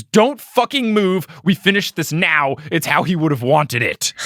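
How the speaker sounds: hammed-up heroic yell, easing off; overacted action-movie shout; mock scream. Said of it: "but Harry screams".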